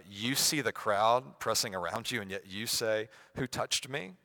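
a touch of sarcasm; sarcastic. Acted. Disciples answering Jesus, mildly sarcastic. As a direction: read it with mild, questioning sarcasm. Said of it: "with a bit of a sarcastic tone".

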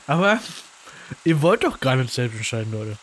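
talking around a bite of cookie; chewing while talking. Real, not acted. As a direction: speak with crumbs in your mouth. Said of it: "ich esse nebenbei einen Keks".

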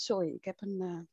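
speaking with a dry, scratchy throat. Real, not acted. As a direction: talk through a dry throat. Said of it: "droge keel".

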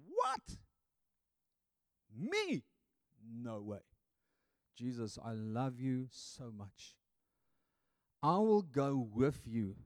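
shocked denial, then tender devotion; incredulous protest. Acted. Preacher acting Peter denying he'd betray Jesus, incredulous.

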